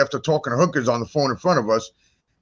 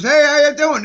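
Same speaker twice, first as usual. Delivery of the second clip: retold yell; 10 semitones higher, 4 dB louder than usual. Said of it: "He's yelling to the neighbors".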